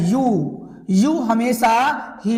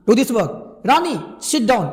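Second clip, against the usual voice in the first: slow command; slower than usual. Shown as a demonstration. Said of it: "ये बोलने के तरीका से देखिए".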